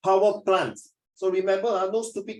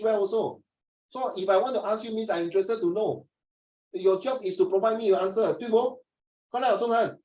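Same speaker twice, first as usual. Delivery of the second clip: higher-pitched mock student protest; indignant student talk-back; 4 semitones higher than usual. Student answering the teacher who called them stupid, indignant. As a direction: argue back as an affronted pupil.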